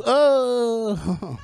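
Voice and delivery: high laughing yelp; mock husband yelp. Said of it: "the noise my husband makes".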